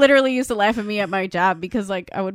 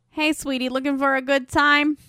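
sleazy come-on; 4 semitones higher than usual. Retold or imitated. Sleazy guy hitting on her.

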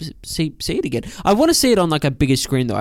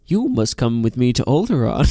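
Alec Guinness as Obi-Wan. Acted. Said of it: "Just Alec Guinness sits down".

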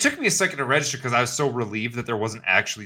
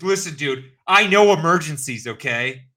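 indignant boast; 5 semitones higher, 4 dB louder, slower than usual. Retold or imitated. Boasting retort.

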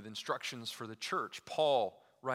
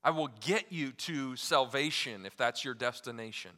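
bus driver parody; 5 dB louder than usual. Pretend. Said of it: "he's not saying, you know".

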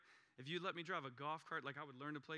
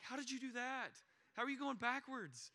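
higher, louder alarmed disbelief; a dad jolted awake by bad news; 10 semitones higher, 5 dB louder than usual. Father on the phone to his lost daughter, alarmed and much higher. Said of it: "I'm like".

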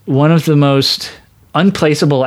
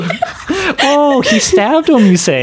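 high, slow, innocently curious interviewer; imitating Marge reacting; 10 semitones higher, slower than usual. Marge questioning a witness in Rashomon, innocently curious. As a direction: draw it out as polite, wide-eyed interest. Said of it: "her just being like".

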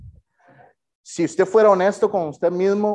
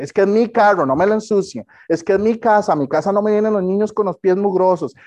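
mock possessive whine; 4 semitones higher than usual. Mocking possessive church people.

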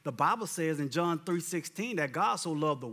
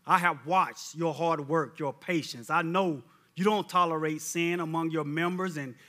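scripture reading; 3 semitones lower than usual. Acted. Preacher reads Revelation to the church, solemn and low. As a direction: read it like the Lord speaking.

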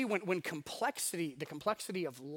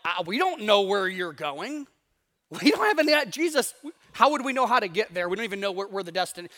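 anxious Thomas; 2 semitones higher, 9 dB louder than usual. Retold or imitated. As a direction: play a fretting Thomas. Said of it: "So Thomas is like".

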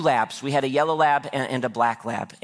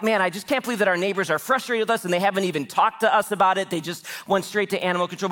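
higher, quickened retelling of a worried wife; mild fretting in a hurried, raised pitch; worried, worked up; 5 semitones higher, faster than usual. Retold or imitated. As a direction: imitate someone upset by an unfair snub. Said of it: "worried that".

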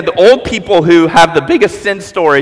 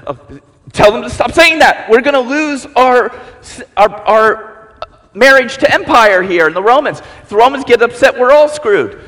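Pharisee; 4 semitones higher than usual. Acted. Nervous Pharisee voiced, higher.

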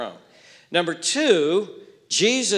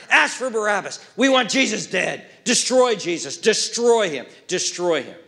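pushy priests; 2 semitones higher than usual. Acted. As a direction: work the crowd, pressing them hard. Voices priests pressuring crowd.

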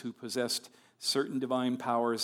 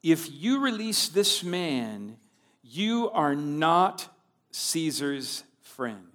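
crying out; 3 semitones higher, 4 dB louder, much slower than usual. Acted. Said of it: "the Jews cried out".

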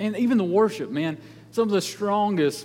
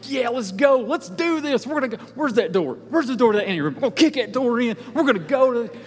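fired up; 4 semitones higher than usual. Retold or imitated. Fired up, imagining kicking door.

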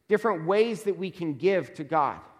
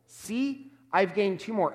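excited servant; 4 semitones higher than usual. Retold or imitated. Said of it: "Again, there's excitement".

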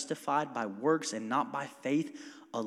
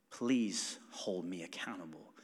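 whispered plea; 9 semitones lower, 8 dB quieter than usual. Retold or imitated. Humble plea to his mom.

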